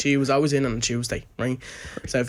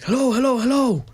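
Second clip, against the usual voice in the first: higher, louder phone hello; mock caller checking if anyone's there; calling hello; 11 semitones higher, 4 dB louder than usual. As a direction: call hello down a bad line. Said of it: "he rang and he was like".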